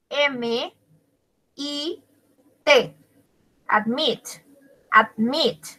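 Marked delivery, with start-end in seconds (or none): 3.7-5.7 "Admit" stressed on the final "mit"; stress on last syllable. Shown as a demonstration. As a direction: lean on "mit" in each "admit". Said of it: "lleva la sílaba entonada en la última". ("admit" con el acento en la última sílaba, "mit")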